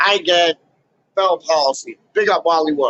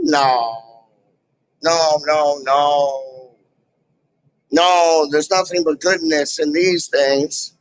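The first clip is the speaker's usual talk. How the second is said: much lower, put-on deep denial; lightly voiced smug authority; a hint of a smug official brushing off blame; mock official denial; 4 semitones lower, slower than usual.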